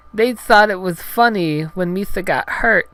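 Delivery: high, loud woeful alien voice; Jar Jar Binks, sad. Acted. Hurt Gungan confiding in heroine, high pitiful cartoon voice. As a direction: complain pitifully in cartoon falsetto. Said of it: "Jar Jar said sadly".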